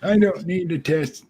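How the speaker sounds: Grandpa Simpson. Retold or imitated. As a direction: grumble like a stubborn grandpa. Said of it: "I sound like Grandpa Simpson".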